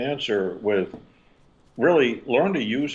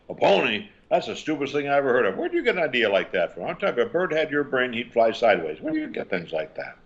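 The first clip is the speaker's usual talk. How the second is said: fast, high mocking disbelief; scornful reacting mom; 4 semitones higher, faster than usual. Single mom scoffing at her son's pony wish, fast and mocking. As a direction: scoff at the kid's idea, rattling it off.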